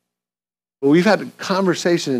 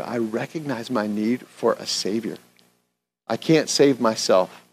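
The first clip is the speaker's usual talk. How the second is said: earnest, unhurried prayer voice; pastor's prayer; 2 semitones lower than usual. Acted. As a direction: pray aloud for the congregation. Leads the closing prayer.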